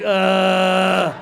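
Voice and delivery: imitated groan of pain, held out. Comic acting out the ad's sufferer, mock pained groan. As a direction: groan like a man doubled over. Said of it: "he's bent over in pain".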